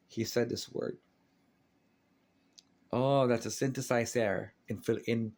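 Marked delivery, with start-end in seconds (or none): 2.9-4.5 put-on dad's Filipino accent. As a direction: say it like a Filipino dad. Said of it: "in Filipino accent".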